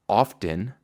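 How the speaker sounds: often with a clear T, rising; often said slowly with the T. Shown as a demonstration. Teacher models the word often. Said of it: "como por ejemplo".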